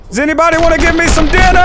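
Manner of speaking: fast, loud call to everyone. Pretend. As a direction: shout it out to the room. Calling out to enemies.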